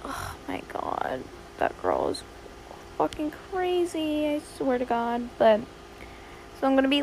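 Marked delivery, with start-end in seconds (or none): 0.1-5.3 hushed gossip whisper. Real, not acted. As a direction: breathe it like a secret. Gossiping about the girl.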